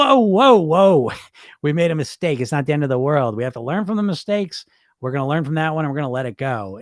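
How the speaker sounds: calm them down like a kind coach. Retold or imitated. The coach voice defending you from the critic, reassuring. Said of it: "it's the coach voice".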